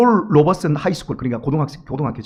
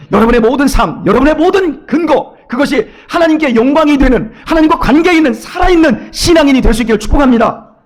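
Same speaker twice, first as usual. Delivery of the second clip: 점점 커지는 설교 외침; 목청 높여 축복을 선포하듯; 6 semitones higher, 5 dB louder than usual. Real, not acted. (회중에게 힘차게 외치는 축복 선포)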